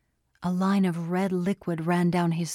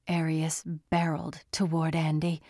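plain reading voice

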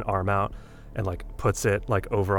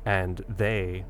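blank, numb reassurance; 4 dB quieter than usual. Acted. Jason holding a friend after the ambulance leaves, blankly reassuring. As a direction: reassure quietly as if still locked on the scene. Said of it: "still blankly is just like".

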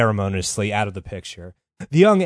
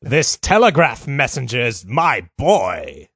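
pompous rich man; slower than usual. Retold or imitated. Acting rich man, slow far voice.

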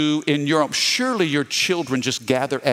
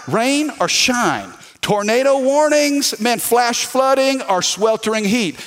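fired-up; 6 semitones higher, slower than usual. Real, not acted. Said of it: "it doesn't matter".

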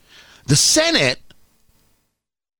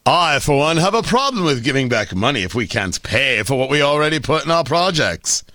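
lightly voiced posh elitist; a hint of a snooty aristocrat; mock-refined reading of the quote; pinky-up snob; 5 semitones lower than usual. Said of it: "is your pinky up?".

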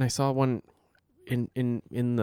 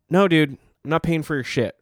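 louder, annoyed brush-off; telling him off; 3 semitones higher, 6 dB louder than usual. Retold or imitated. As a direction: send him packing. Telling off beggar.

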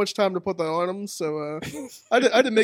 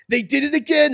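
raised, louder mock yell of a wrestler; imitating a scream; 7 semitones higher, 7 dB louder than usual. Retelling a tag partner's outburst on video, mock yell. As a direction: shout it high, imitating his excited promo. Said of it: "he just started screaming".

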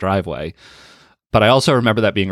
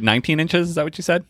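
surprised; 9 semitones higher than usual. Real, not acted. Reacting to tiny snowfall total.

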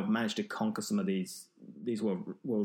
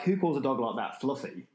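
laughing; 2 semitones higher than usual. Retold or imitated. Amused thought, laughing.

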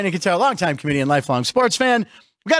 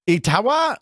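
Jabba the Hutt; 2 semitones lower, much slower than usual. Shown as a demonstration. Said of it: "That sounded like Jabba the Hutt".

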